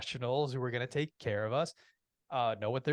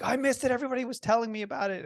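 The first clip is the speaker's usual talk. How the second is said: higher, quick imitation of gushing listeners; mock excited dismay; 10 semitones higher, faster than usual. People who missed the talk complain to the speaker, excited dismay. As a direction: mimic them in a high rush of words. Retold listeners lamenting missing it.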